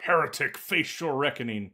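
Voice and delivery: lightly imitated battle line, slowing down; mock game-character challenge; dramatic combat callout. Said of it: "like, a dramatic voice call out".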